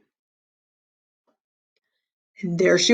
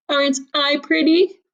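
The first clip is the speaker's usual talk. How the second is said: put-on vain girl; 8 semitones higher than usual. A narrator's reading. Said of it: "she said".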